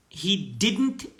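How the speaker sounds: slow, careful past-tense line; slow model reading. Shown as a demonstration. Teacher modelling the past tense slowly. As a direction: read it out slowly for learners. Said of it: "Porque é no passado".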